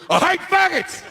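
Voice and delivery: high, shouted clip snippet; high mock out-of-context blurt; edited clip. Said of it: "edit that last routine down to".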